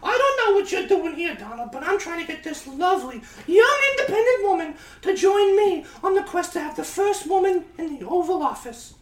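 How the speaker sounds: put-on Hillary with New Jersey accent. New Jersey accent Hillary recruiting young independent woman. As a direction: pitch her quest high and brassy. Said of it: "strong New Jersey accent".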